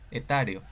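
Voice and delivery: Etario stressed on the A, e-TA-rio. Shown as a demonstration. Teacher showing students how Etario is written, stress on the A. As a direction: say Etario with the accent on TA. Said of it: "un acento en la A".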